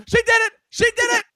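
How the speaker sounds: a shouted movie-quote yell, both times the same; lightly hammed-up panicked accusation; quoting Anthony Anderson. Friend quoting Transformers to his co-host, mock panic. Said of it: "throw back to Anthony Anderson".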